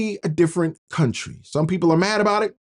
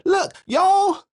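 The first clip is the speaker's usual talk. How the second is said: imitating the Kenyan president; 4 semitones higher than usual. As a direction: lecture them like the ex-president did. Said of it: "He said".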